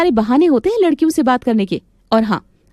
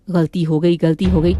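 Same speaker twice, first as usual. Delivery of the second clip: "गलती हो गई" repeated lower in a taunting mimic; mocking the maid; 4 semitones lower than usual. Mistress mocking the maid's excuse, lower taunting mimic. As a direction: parrot her "गलती हो गई" back with scorn. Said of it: "रोज का यही नाटक है तुम्हारा".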